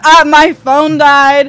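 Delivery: half-laughing, half-despairing; laughing while telling. Real, not acted. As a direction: laugh ruefully at how bad it got. Retelling the worst moment, laughing.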